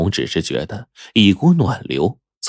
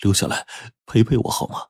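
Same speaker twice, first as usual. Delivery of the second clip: softer, coaxing murmur; soft plea; 5 dB quieter than usual. Acted. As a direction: beg her gently to stay. Man pleading softly to stay. (轻声恳求她留下)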